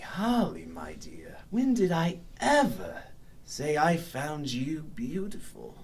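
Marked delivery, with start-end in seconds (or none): 0.0-4.0 soft unvoiced whisper of her name; creepy hushed whisper. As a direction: breathe the name right into her ear. Villain leaning in close.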